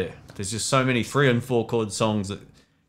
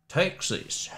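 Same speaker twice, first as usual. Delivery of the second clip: "Texas" drawn out in a hammed-up Texan accent, pitched higher; bad Texan accent; 7 semitones higher, 5 dB quieter than usual. Shown as a demonstration. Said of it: "That's my bad Texan accent".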